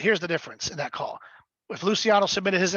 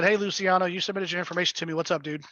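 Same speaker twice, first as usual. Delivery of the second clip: very nice way. Shown as a demonstration. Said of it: "in a very nice way".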